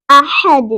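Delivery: अहद with a bounced final D; echoing qalqala. Shown as a demonstration. Teacher models the last word, bounced अहद. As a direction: release the D of अहद with an echo. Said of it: "दाल के ऊपर कलकला करेंगे".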